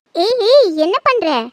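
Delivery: high, loud yelp of surprise; startled, swooping squeal; startled protest. Acted. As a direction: cry out as if suddenly swept up. Woman suddenly lifted by her lover.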